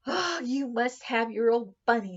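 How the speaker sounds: fond nursemaid scolding, lightly played; a hint of a grumbling nanny; Nana's voice. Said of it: "she said".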